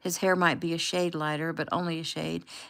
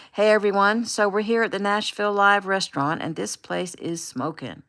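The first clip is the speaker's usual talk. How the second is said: upbeat livestream host; 4 dB louder than usual. Acted. Gabe live on camera greeting followers.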